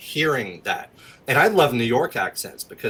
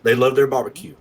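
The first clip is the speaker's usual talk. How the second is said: Texas accent; 4 semitones lower than usual. Shown as a demonstration. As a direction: sound like a laid-back Texan. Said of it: "Texas accent is gonna be a little bit more like this".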